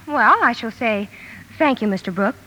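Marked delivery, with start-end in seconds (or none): 1.6-2.4 cool, firm refusal, evenly said; calm and decided. Shown as a demonstration. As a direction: say it calmly and decidedly. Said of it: "quite calmly and decidedly".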